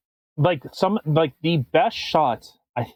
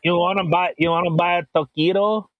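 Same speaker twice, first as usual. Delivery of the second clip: mock Mexican accent. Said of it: "It's Mexican".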